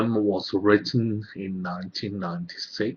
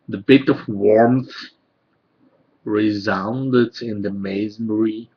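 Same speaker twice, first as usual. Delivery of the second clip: measured poem recital, pausing between phrases; poetry reading; 4 dB louder than usual. Acted. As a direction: read it as verse, line by line. Reads own poems aloud.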